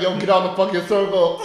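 laughing half-yell from a car; mock yell. Driver calling out worker in circle, laughing mock yell. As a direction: toss it out while laughing. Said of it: "He's like".

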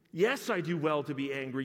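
first stubborn take; defiant Jonah. Acted. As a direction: plant your feet on Yes.

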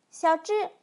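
high, loud name call; scolding shout. A narrator's reading. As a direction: call out as a cross mother. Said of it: "老妇人喊道".

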